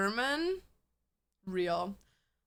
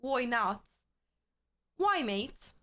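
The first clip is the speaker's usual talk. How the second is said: lightly mocking British accent; put-on British accent; 3 semitones lower, slower than usual. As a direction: tease with a touch of British. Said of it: "never use that accent in the U K".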